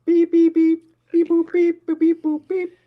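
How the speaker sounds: very high, loud robot beeps; toy robot voice. Pretend. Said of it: "you're roboting really hard".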